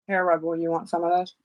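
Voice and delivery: talking through a mouthful of food; chewing while talking. Real, not acted. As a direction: speak while chewing dinner. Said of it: "Sorry, I'm trying to eat dinner".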